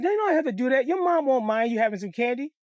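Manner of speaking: high, sugary coaxing stranger voice; sweet candy lady. Retold or imitated. Stranger in a car luring kids, high sugary coax.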